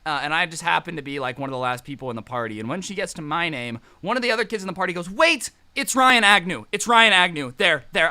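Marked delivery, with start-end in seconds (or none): 5.1-8.1 louder, higher eager blurt; a hint of a kid rushing to snitch.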